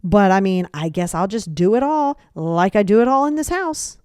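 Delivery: acted passive-aggressive martyr. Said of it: "passive aggressive comment is like".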